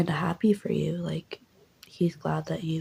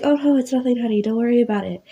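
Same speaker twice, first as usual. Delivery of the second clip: mom brushing it off; 5 semitones higher, 5 dB louder, faster than usual. Acted. Mom hiding injury, brushing off.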